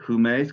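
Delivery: HUMES begun with an audible H; rough breathing. Shown as a demonstration. Teacher modelling Greek for student, HUMES with rough breathing. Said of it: "'cause that's the rough breathing".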